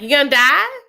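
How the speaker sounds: high-pitched imitated child question; grandkid. Grandkid asking about grandma's surgery, imitated child voice. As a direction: pitch it up like a blunt little kid. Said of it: "one of the grandkids is like".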